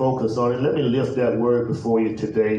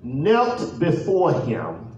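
measured, deliberate pulpit reading; solemn, stretched-out Bible reading; scripture reading; 2 semitones higher, much slower than usual. Real, not acted. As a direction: read the verse out with long pauses between phrases. Reads scripture aloud.

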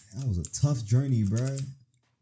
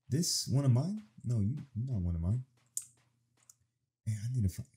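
ordinary talk

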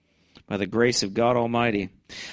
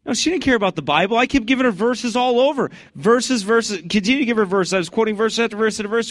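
much higher, louder and heated; worked-up retelling; 11 semitones higher, 5 dB louder than usual. Real, not acted. Preacher heatedly tells how he kept quoting verses, high and loud. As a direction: build the outrage verse after verse.

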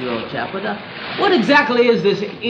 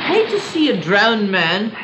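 incredulous; 2 semitones higher than usual. Acted. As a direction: question it as if he were mad. Gentleman appalled at the offer.

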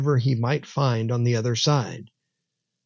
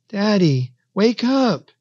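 put-on high-pitched pleading child; 8 semitones higher than usual. A narrator's reading. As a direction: beg your father to wake, voice pitched well up. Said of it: "he pleaded".

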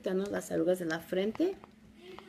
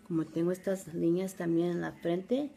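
Spanish with an American accent. Real, not acted. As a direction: speak Spanish like an American learner. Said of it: "Disculpen mi español".

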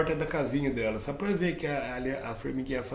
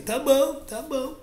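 high meek ant; 9 semitones higher, slower than usual. Acted. Ant gives in.

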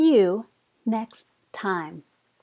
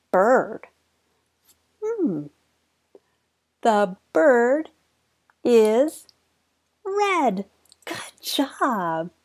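put-on reading to a toddler; 2 semitones lower than usual. Teaching toddler shapes.

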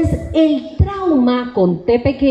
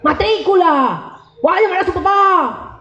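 drawn-out, higher-pitched classroom orders; scolding teacher; 5 semitones higher than usual. Acted. Teacher disciplining a troubled child, stern scolding. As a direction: bark out each reprimand like a strict teacher.

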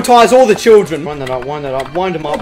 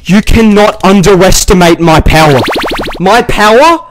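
loud, bragging declaration; loud boast; 8 dB louder than usual. Real, not acted. Gamer shouting at the animatronics, loud and boastful. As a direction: proclaim your power at full volume.

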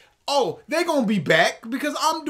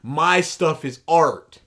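mock indignant whine; 8 semitones lower, slower than usual. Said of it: "than just".

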